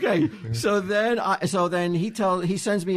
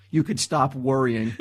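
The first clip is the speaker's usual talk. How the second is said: sarcastic; 3 semitones lower than usual. Retold or imitated. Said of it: "like, all sarcastic and mad".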